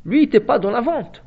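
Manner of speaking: normal talking voice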